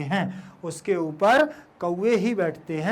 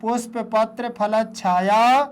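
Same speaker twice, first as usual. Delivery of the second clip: words linked, last word drawn out; read in one go; 2 semitones higher than usual. Shown as a demonstration. Teacher shows pupils how to read it in one go. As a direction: join the words, stretch the final vowel. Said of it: "ऐसे पढ़े".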